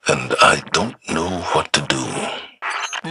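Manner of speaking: crying. Acted. Young guardian confessing he is lost.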